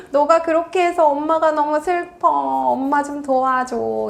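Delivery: mock-sad mother working on the child's pity; guilt-tripping mom. Shown as a demonstration. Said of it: "불쌍한 마음을 자극한다든지".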